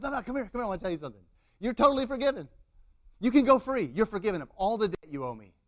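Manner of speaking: loud, high, excited announcement; acted exuberant pardon, building in volume; joyful forgiving. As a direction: burst out with the good news. Imagined man joyfully forgives the debt.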